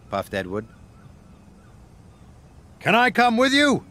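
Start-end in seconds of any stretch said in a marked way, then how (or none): 2.8-3.8 much higher, eager ask; Rocky's bright eager voice; eager crane. A narrator's reading. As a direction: plead to tag along. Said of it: "asked Rocky".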